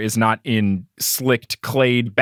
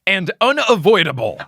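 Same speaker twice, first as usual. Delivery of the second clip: high-pitched, pumped-up mock declaration; bursting out; 9 semitones higher than usual. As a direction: proclaim it like a self-hyping hero. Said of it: "then bursts out".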